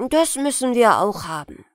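put-on a loud, eager boy's yes; mock-eager child; eager agreement. Boy Ola voiced in tale.

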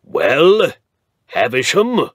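put-on old earl in pain greeting his lawyer; bad-tempered earl. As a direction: bark it like a grumpy old lord. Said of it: "even more bad-tempered than usual".

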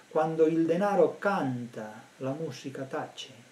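slow, weighed-out Italian quote; Italian proverb, slow. Retold or imitated. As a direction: quote the Calabrian saying slowly and deliberately. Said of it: "un proverbio calabrés".

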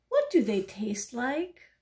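slightly slow, innocent question, rising at the end; curious duck. Acted. Little duck asking the pigeon about hot dogs, curious. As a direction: ask it slowly and curiously.

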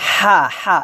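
হা light, from the middle of the throat; thin throat sound. Shown as a demonstration. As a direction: squeeze a thin হা out of mid-throat. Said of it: "চিকন করে বলতে হবে গলার মাঝখান থেকে".

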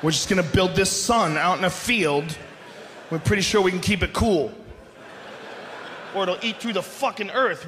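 low, laid-back dismissive dude; breezy engineer. Retold or imitated. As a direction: wave off the worry casually. 1970s engineer dismissing worry.

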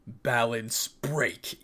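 very slow, stretched invocation; slow, deliberate battle cry; drawn-out power call. Acted. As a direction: stretch out each word like an attack name. Battle move called out.

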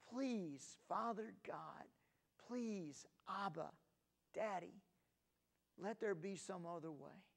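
pleading prayer. Retold or imitated. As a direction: beg gently, mildly. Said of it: "He prayed".

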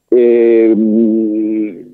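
ordinary talk, nothing marked

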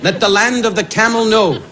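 slow, mock-pious preaching of nonsense; lightly voiced rabbi, solemn and slow; mock rabbi sermon. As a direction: play the pompous rabbi, drawn out. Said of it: "He said".

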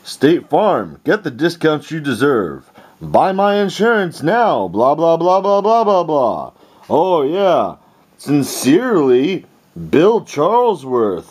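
mocking junk mail voice. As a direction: read it like a cheesy ad mocking the sender. Mocks a junk mail letter.

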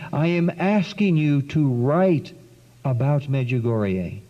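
a gentle, unhurried plea. Retold or imitated. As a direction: let each phrase fall slowly and tenderly. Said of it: "this gentle woman continued to speak".

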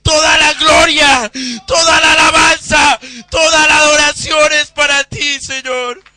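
crying out in prayer before the congregation; fervent prayer. Real, not acted. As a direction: pour it out to God at full voice. Preacher leads fervent prayer.

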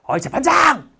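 loud, high defiant yell; angry shout at judge. Retold or imitated. Prisoner yells at judge while overturning table, angry shout. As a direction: call out the judge in fury. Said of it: "이러면서 이제 상을 뒤집죠".

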